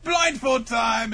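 high, loud, drawn-out mock game call; hammed-up gleeful cry; playful announcement. Acted shout as Kanjuro.

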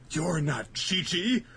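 hammed-up soap opera shock, rising to a loud cry; mock soap drama, slow then loud; dramatic soap reveal. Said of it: "have them be done more dramatically".

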